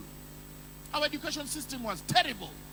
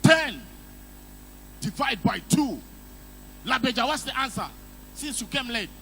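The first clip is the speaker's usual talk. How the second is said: a touch of strict schoolteacher; stern teacher; 4 dB louder than usual. Retold or imitated. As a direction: put the late pupil on the spot. Teacher quizzing a late student.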